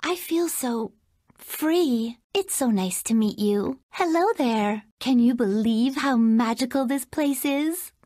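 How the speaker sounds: gracious princess greeting the hero, sweet and even; lightly voiced storybook princess; Princess Jasmine voice. Jasmine greeting Aladdin, a gentle princess voice.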